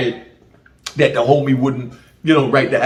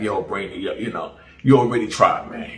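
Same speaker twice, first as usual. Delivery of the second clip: Jamaican patois; 3 semitones lower than usual. Retold or imitated. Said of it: "Them call me Brandon".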